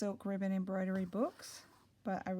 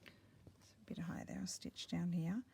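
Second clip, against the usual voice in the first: whispering; 6 dB quieter than usual. Real, not acted. Quietly working on embroidery.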